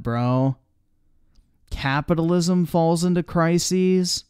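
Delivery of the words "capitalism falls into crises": incredulous. Real, not acted. Mocking disbelief at the claim.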